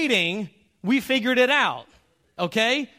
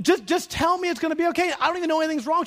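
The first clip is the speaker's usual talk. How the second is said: mock husband; 7 semitones higher, 3 dB louder, faster than usual.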